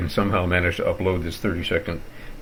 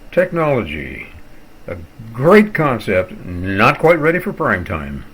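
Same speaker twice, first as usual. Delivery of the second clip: tongue-in-cheek; 4 dB louder than usual. Shown as a demonstration. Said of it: "in a tongue-in-cheek fashion".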